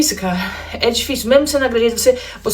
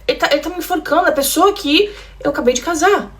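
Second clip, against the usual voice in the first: confused panic; 7 semitones higher than usual. Retold or imitated. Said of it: "eu ficava assim".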